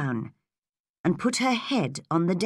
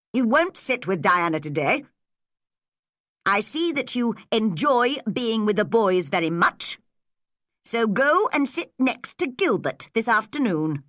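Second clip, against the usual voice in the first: Mister Phillips, stern teacher; 4 semitones higher than usual. Acted.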